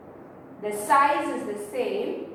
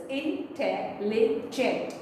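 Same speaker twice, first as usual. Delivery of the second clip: syllable by syllable; 2 semitones lower, 3 dB quieter, slower than usual. Shown as a demonstration. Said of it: "intelligent has four syllables".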